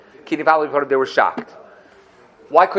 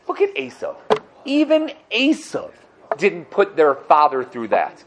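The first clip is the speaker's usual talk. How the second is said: indignant rebuke. Acted. Yosef rebukes his brothers.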